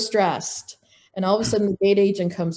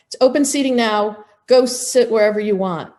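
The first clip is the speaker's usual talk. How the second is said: curt loud order; 3 semitones higher, 5 dB louder than usual. Retold or imitated. Gate agent snapping at a family, loud and curt. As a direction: bark it at the boarding family.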